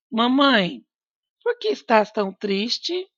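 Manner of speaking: mild questioning tune; gentle question. Shown as a demonstration. Teacher reads a child's question to mother with questioning tune. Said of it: "pela minha entonação".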